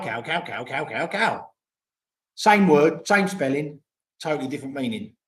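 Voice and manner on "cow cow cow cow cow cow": "cow" repeated with shifting Thai tones. Retold or imitated. Retelling the Thai girlfriend's tone demo, changing tones. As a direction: run "cow, cow, cow" through different tones. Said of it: "it was just cow".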